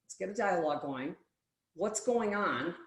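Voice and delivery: gentle invitation. Retold or imitated. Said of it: "if you break this down".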